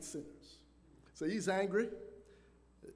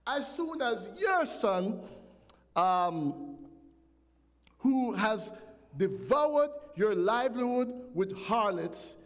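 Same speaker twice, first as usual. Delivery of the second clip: put-on indignant older son berating his father; angry brother; 2 semitones higher, 4 dB louder, slower than usual. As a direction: drag out the accusation against the father. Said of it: "are you listening to this angry brother".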